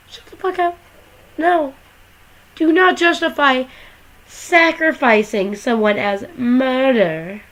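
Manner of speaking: high-pitched exasperated retort; acted outrage at a killer's excuse; mock indignant scolding. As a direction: tell him off, starting high and settling.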